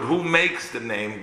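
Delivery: slow down and lean on "makes"; "who makes" said slowly and deliberately, weight on "makes"; emphasize "makes" for the listeners; stress on "makes". Shown as a demonstration. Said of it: "gonna emphasize the word".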